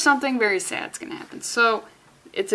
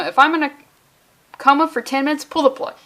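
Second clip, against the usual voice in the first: emphatic insistence; 4 semitones higher, 5 dB louder than usual. Real, not acted. Insisting on record about coma.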